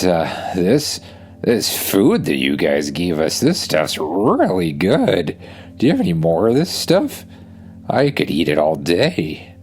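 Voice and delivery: lightly voiced chatty dragon; a hint of a sheepish hungry dragon; friendly dragon voice. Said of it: "says Bill".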